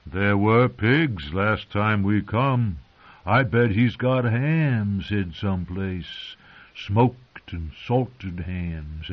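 slow, savoring every word; dreamy craving for food; longing. Acted.

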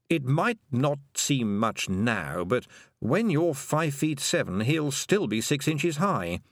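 lightly voiced dry toad, slow and unhurried; a small dry creature, taking its time.

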